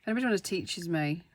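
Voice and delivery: "teaches" said as a fumbled slip before the fix; casual fumbled wording "teaches"; slip of the tongue. Real, not acted. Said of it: "should I say".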